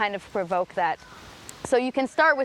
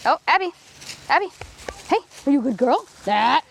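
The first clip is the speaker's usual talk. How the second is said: higher, louder sing-song pet talk; excited dog greeting; 4 semitones higher, 3 dB louder than usual. Shown as a demonstration. Owner gushing at her dog Abby to get her excited, high sing-song pet talk. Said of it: "So I'm gonna create that scenario right now".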